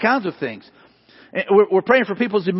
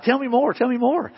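higher, lightly put-on eager interest; mock smiling listener; 4 semitones higher than usual. Preacher mimicking how he should listen, mock smiling interest. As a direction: pretend to be keenly interested, with a smile. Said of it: "sitting there smiling".

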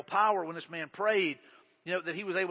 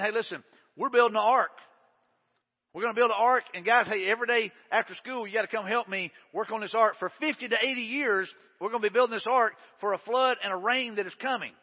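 rallying call; 2 semitones higher than usual. Acted. Noah rallies his kids.

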